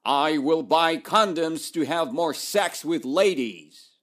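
loud, jokey mock proclamation; teacher teasing with a cheeky proclamation; mock proclaiming. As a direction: boom it out as a silly wrong example. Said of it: "Does he proclaimed".

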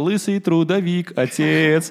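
"Лысый трудовик" chanted loud and slow; kid's misheard lyrics. Retold or imitated. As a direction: belt "лысый трудовик, отец" like a toddler. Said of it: "А он пел".

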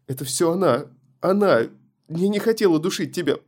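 high, loud terrified scream; panicked scream. Acted. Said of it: "продолжала кричать".

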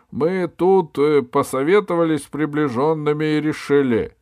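высокая громкая торжественная речь; объявляй всему стадиону с расстановкой; королевское заявление. A narrator's reading. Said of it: "заявил". (торжественно, во весь голос)

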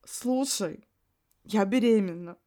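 firm. Acted. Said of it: "утвердительным голосом сказала подруга".

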